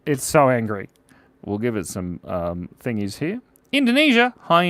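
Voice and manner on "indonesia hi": high, bright shout-out; high excited hello; excited greeting. Real, not acted. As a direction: cheer the viewer's country. Greeting a viewer's country.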